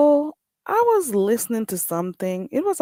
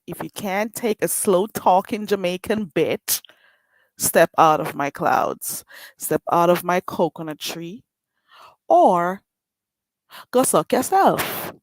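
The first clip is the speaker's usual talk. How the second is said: Jamaican accent. Real, not acted. Telling haters to leave, in a defiant Jamaican accent. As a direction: shoo the haters off in a Jamaican lilt. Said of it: "strong island accent".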